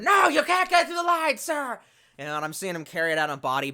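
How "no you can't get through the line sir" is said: high, loud officer holding back the crowd; mock cop shout. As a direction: shout him down like a cop at the line. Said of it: "And he's going".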